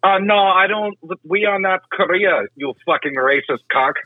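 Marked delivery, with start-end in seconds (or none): 0.0-2.4 higher, put-on Asian accent; mock Asian accent. Restaurant employee rebuking a prank caller, mock Asian accent. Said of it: "Asian accent".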